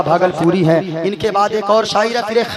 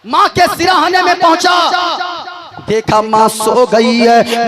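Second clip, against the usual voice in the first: fiery preaching; 2 semitones higher than usual. Acted. Preacher retelling the mother's tale to the gathering, full preaching voice. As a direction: preach the parable full force to the crowd. Preacher tells story of three friends.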